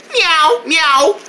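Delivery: playful kitten imitation; cat meow. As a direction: meow like a kitty. Playful pun on kitty.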